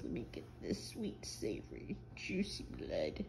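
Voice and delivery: lightly voiced vampire savouring the words; hammed-up vampire relishing the blood. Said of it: "How all the vampires say it".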